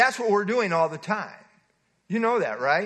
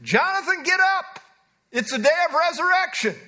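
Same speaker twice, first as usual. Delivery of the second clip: higher, louder mock summons to the grave; dramatic call; 10 semitones higher, 4 dB louder than usual. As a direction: call the dead man up with mock solemnity. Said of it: "And he would say".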